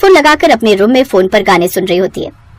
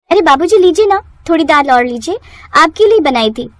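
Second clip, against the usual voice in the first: high, sugary coaxing; overly sweet daughter-in-law showing off; fake sweetness; 5 semitones higher than usual. Wife feigns sweetness before husband. (बनावटी मिठास से)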